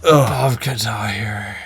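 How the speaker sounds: hushed whisper. Real, not acted. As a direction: breathe it in disbelief. Mock disbelief at ranking.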